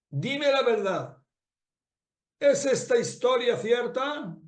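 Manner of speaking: a son begging his mother to confirm the story, slow and urgent; urgent demand. Acted. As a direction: press her for the truth, word by word.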